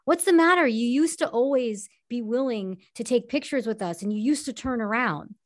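starts high and loud on what's the matter, then eases off; mock a needling paparazzo; pushy photographer. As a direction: photographer calling out to the actress, high and loud at first. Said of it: "one photographer says".

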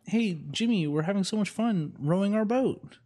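light high-pitched Swedish sailor voice; Swedish boater voice. Acted. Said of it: "I'm not gonna do a Swedish accent".

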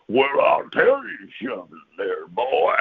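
gruff Sasquatch drawing out his threat-like promise; lightly put-on gruff creature voice. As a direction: talk gruff, like a stern daddy. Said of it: "gruff voice".

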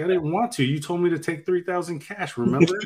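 retold protest. To wife, retelling his high indignant protest. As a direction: plead your case, pitch up. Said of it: "And I was like".

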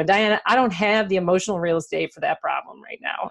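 a light, half-hearted Texas drawl, barely put on; mock Texas drawl of a condescending sales exec; lousy Texas drawl. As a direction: imitate the boss's lazy Texas drawl without much effort. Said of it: "I'm doing a lousy Texas drawl here".

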